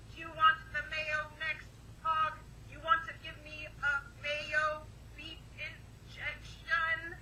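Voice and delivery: slow flat robot voice; deadpan machine talk, drawn out. Pretend. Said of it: "We got to do the robot voice".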